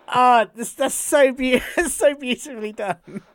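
high, loud, laughing admiration; laughing delight. Real, not acted. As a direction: gush through real laughter, slowing at the end. Delighted by the joke just retold.

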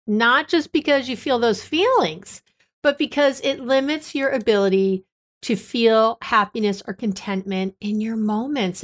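measured podcast intro voice; scripted intro read. Acted. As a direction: read it like a polished show opener.

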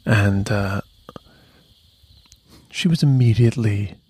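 hushed whisper so no one wakes; barely voiced whisper. Real, not acted. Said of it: "I still think I have to whisper".

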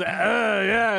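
joie de vivre. Acted. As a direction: act it out with exaggerated gusto. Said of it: "joie de vivre".

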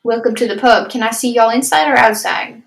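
customer-service greeting in a country accent. Shown as a demonstration. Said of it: "then I get into my country accent".

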